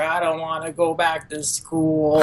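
mock-sulky kid complaining about school; whiny brother voice.

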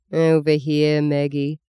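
tired voice. Acted. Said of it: "came his tired voice".

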